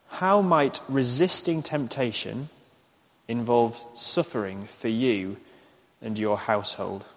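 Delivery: measured phrases with pauses between; slow dictation. Shown as a demonstration. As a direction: say it slowly enough to write down. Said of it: "I'll say them slowly".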